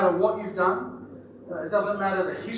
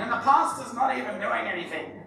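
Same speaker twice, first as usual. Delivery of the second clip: lightly put-on whiny complaint, with a laugh; mock grumble as a congregant, half laughing; Trish voice; 4 semitones higher than usual. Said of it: "I sounded like you then, Trish".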